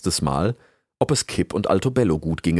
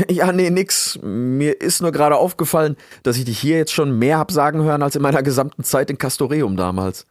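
higher, raised, lightly teasing voice; amused traveller; 8 semitones higher, 4 dB louder than usual. Acted. Rix teases the talkative beaver, amused. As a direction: explain with amusement after a chuckle.

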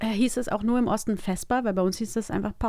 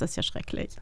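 quiet dismay; 5 dB quieter than usual. Real, not acted. Shocked, quiet.

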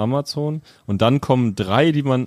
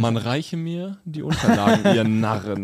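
lightly voiced haughty royal command; a hint of a crowned tyrant; pompous king; 2 semitones higher than usual. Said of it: "Pelzmantel und so".

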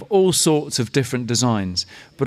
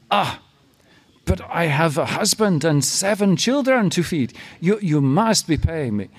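higher, pleading market mama; brassy gum smacking floozy; 4 semitones higher than usual. Retold or imitated. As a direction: lay on the guilt playfully. Mama pleading over her family.

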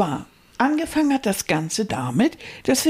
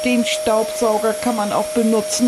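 hammy stage actor. Acted. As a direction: lay it on like theatre. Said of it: "theatralischen Einstieg".

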